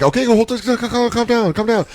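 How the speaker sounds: high, soft nervous pleading; put-on timid high voice; mock flustered. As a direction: try to calm someone down, comically overwhelmed. Acts out flustered man calming her.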